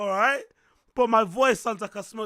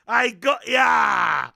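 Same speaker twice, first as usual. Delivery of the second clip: taunting shout; 5 dB louder, much slower than usual. Acted. Taunting chat.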